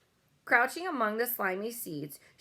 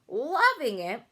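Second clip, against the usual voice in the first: a louder incredulous yell; 4 semitones higher, 5 dB louder, slower than usual. A narrator's reading. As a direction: fling the words back. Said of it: "yelled the blood bottler".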